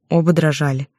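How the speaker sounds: ordinary delivery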